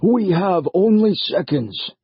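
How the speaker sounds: put-on old stranger urging haste as the floor shakes; urgent old man. A narrator's reading. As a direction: hurry them along.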